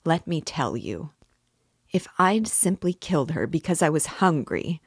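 earnest, weighted delivery, each word pressed; stress on every word. A narrator's reading. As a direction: lean on each word with conviction. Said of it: "laying stress on every word".

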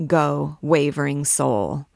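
solemn, measured pronouncement; mildly funereal priestly blessing; funereal tones. A narrator's reading. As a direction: send off the condemned with grave formality. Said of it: "he exclaimed in funereal tones".

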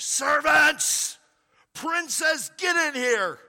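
loud high bellow across the palace; yelling for servants. Retold or imitated. Pharaoh in his chamber yelling for servants, loud bellow. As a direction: shout for the servants at the top of your lungs. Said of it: "yelling at the top of his lungs".

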